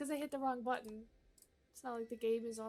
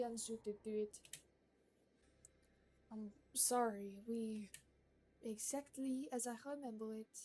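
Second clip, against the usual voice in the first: haughty gourmet lady. Acted. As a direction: read it like a picky aristocrat giving orders. Voicing the gourmet NPC Marguerite.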